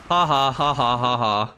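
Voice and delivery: taunting fake ha ha ha, imitating the opponent; mock laugh. Streamer mocks the opponent laughing at him, fake taunting laugh. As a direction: parrot his laughter back at him, mocking. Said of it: "What are you laughing about?".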